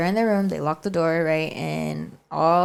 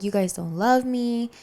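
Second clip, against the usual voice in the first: higher-pitched, mildly whiny retold plea; mock tearful grandma; 6 semitones higher than usual. Crying grandma to the kids behind the door, mock tearful. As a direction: imitate a weepy grandma, lightly. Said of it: "she's crying and she's like".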